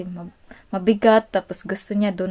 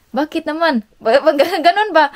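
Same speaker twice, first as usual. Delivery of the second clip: surprised; 6 semitones higher, 6 dB louder than usual. Retold or imitated. Husband surprised, wife answers.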